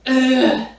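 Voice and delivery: short, loud groan of frustration; frustrated groan. Real, not acted. Vlogger frustrated at missing her weight-loss goal, frustrated groan. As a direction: groan at a goal still out of reach.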